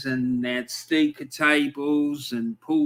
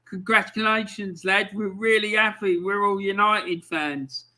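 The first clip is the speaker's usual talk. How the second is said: higher-pitched imitated congratulations; delighted; 5 semitones higher than usual. United fans congratulating Arsenal lads, delighted. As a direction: congratulate them as a happy rival fan. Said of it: "they were absolutely delighted".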